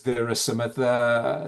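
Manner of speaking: usual speaking voice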